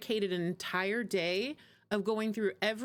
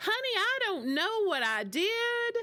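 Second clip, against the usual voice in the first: heavy put-on Southern accent, very high-pitched; 11 semitones higher than usual. Retelling Mom calling for help after clicking something, imitating a thick Southern accent. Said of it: "she has a really thick Southern accent".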